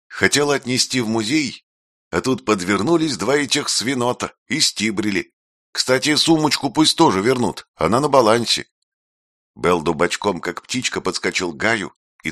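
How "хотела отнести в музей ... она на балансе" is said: put-on high nasal street-kid voice; nasal Makar impression. A narrator's reading. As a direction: whine it nasally like a petty crook. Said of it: "гнусаво сказала Рина, подражая Макару".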